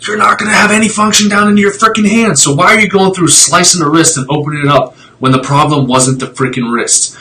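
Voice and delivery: getting worked up about needless wrist surgery; fired up. Real, not acted. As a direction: vent the frustration hard, building. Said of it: "I got a little fired up there".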